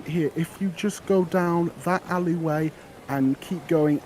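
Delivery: put-on a cheerful girl pushing her flowers; eager flower girl. Flower girl offering her flowers to the adventurer, high and eager.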